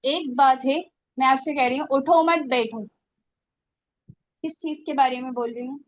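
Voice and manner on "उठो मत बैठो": उठो मत joined as one phrase, then बैठो; group उठो with मत, set बैठो apart; pause after मत. Shown as a demonstration. Teacher showing the order to sit, pause after मत. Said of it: "बैठने की ताकीद हो रही है ना".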